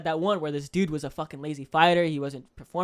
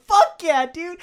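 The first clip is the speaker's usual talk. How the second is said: hyped; 11 semitones higher, 8 dB louder, much slower than usual. Retold or imitated. Fighter's hyped reaction.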